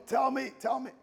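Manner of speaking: begging her to just name it; pumped up. Retold or imitated. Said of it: "like, pumped".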